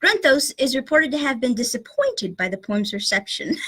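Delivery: put-on British narrator; British accent. Host reading the book to co-host, British accent. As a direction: read it out with an amateur British accent. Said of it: "horrible British accent".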